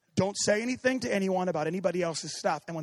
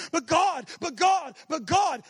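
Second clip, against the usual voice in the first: mock whiny pleading; 8 semitones higher, 4 dB louder, slower than usual. Mocking pleading believer.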